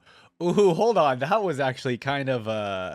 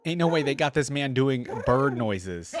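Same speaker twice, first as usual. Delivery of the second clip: laughing disbelief; 2 semitones higher, 5 dB louder than usual. Real, not acted. Laughing at the bird noises.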